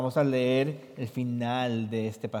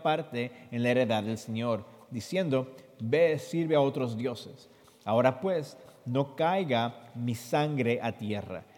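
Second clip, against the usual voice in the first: scripture reading; 2 semitones higher than usual. Acted. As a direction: read the verses out for the listeners. Reads Spanish scripture translation.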